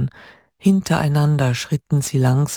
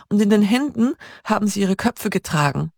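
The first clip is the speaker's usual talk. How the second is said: higher raised call; calling after him; 6 semitones higher, faster than usual. A narrator's reading. Hannah calls after departing Peter, raised call. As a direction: call it after someone walking away. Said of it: "rief sie ihm hinterher".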